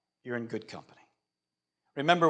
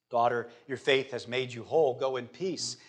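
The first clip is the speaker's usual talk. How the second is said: gently reassuring, a little lowered voice; comforting; 4 semitones lower, 4 dB quieter than usual. Acted. Jesus to the healed woman, comforting. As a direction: reassure her in a lower, settled voice. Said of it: "he says to her to comfort her".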